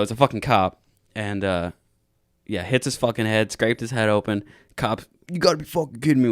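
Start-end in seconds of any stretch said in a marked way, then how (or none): 5.3-6.3 higher, quick exasperated cop; rapid retold exasperation; disappointed cop. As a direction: imitate a cop in disbelief. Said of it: "that amount of disappointment".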